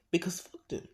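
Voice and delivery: cold whisper. Acted. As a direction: breathe it out with contempt. Izuku answers Aizawa coldly.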